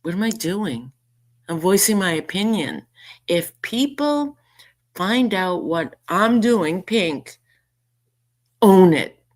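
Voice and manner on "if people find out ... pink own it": mocking quote. Quoting accuser mockingly.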